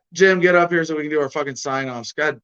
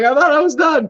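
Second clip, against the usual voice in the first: mimicking her; 11 semitones higher, 8 dB louder than usual. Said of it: "She's like".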